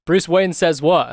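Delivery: slow gravelly Batman growl. Retold or imitated. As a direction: drag it out like Batman. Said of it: "It's the Batman voice".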